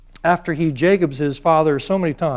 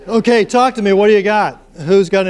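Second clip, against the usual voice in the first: calling out; 3 semitones higher, 8 dB louder than usual. Real, not acted. Calling the class back.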